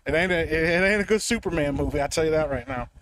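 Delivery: muffled mic, like in a closet; in a small room. Real, not acted. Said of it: "why do you sound like you're in the closet right now".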